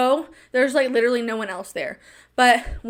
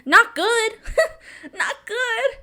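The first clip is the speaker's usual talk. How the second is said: laughing answer; 10 semitones higher, slower than usual. Real, not acted. Answering own question.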